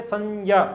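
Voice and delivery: संज्ञा said "san-jaa", with a j; Sanskrit pronunciation. Shown as a demonstration. Teacher tells how Sanskrit speakers said it, Sanskrit pronunciation. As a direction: give संज्ञा a j in place of g. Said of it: "Sanskrit में बोलते थे".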